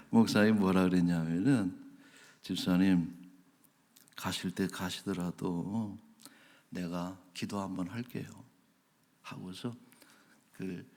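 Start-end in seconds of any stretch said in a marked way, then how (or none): 2.4-8.3 lower, measured pastor's appeal; acted calm sincerity. Pastor stopping the departing deacon to pray, acted calm sincerity. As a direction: imitate a pastor gently offering a prayer.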